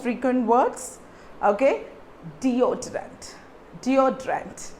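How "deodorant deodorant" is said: deodorant as dee-o-trent; model pronunciation. Shown as a demonstration. Teacher models the word deodorant for the class, slow model. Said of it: "D O D O O H".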